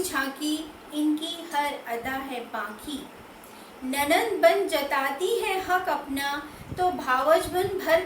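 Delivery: measured poetry reading, phrase by phrase with pauses; poem recitation. Acted. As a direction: recite the verse with deliberate lilting emphasis. Recites her third poem.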